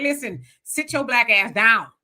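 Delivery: "sit your black ass down" said firm at normal pace; a hint of a stern grandmother; scolding grandmama. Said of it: "they be like".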